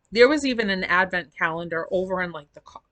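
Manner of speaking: talking through hiccups; words broken by a hiccup. Real, not acted. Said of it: "I have the hiccups".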